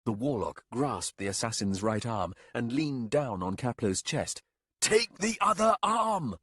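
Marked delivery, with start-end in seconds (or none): 4.8-6.4 loud, high urgent shout; shouted command. A narrator's reading. Warlock shouting at the captain, loud high shout. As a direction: bark the order at her. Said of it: "he shouted".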